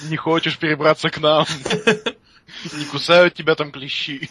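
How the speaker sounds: loud laughing call; shouting from the road. Retold or imitated. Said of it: "кричит с дороги".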